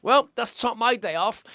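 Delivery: slow, deadpan retelling of a mate's line; imitating a bone-dry understatement, slowly. Bruised squash mate, dry deadpan understatement. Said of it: "He's just, like, dead dry".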